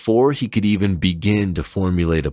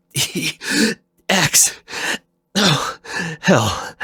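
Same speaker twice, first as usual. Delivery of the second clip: a much higher, strained cry of X then a curse; pained outburst; much slower than usual. Acted. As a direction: cry out in pain and shock. Zero in agony, memories returning.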